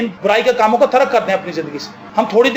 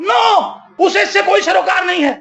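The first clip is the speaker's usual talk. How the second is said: forceful no; 6 semitones higher than usual. Real, not acted. Preacher's forceful denial.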